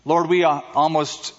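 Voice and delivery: a lightly hushed pastor's prayer. Acted. Opening prayer.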